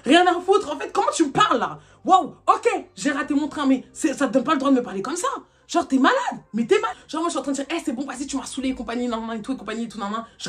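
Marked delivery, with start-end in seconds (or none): 0.1-7.0 angry. Retold or imitated. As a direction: demand respect, fuming. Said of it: "je m'énerve au téléphone". (colère vive, voix forte et vexée)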